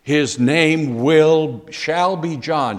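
high, loud, firm no, then slow and deliberate; insist, dragging out his name will; a mother flatly overruling the relatives, emphatic. Retold or imitated. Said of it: "Mary is quite emphatic in saying".

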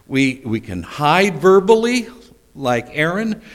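high, loud preaching; fervent sermon peak; preaching at full force. Acted. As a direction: drive the point home.

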